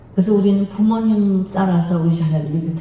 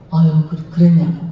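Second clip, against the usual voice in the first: sympathetic response; 3 dB louder than usual. Retold or imitated. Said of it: "이렇게 털어만 주면서".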